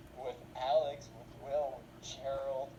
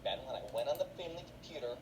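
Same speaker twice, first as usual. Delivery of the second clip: quicker mom; much faster than usual. Acted. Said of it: "in excruciating detail".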